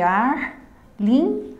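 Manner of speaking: "Arlindo" in three slow beats: ar, lin, do; syllable by syllable. Shown as a demonstration. Teacher separating a name for students, syllable by syllable. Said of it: "Separando o nome Arlindo".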